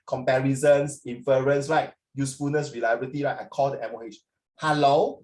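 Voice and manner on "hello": mock casual phone greeting. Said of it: "I don't talk like that".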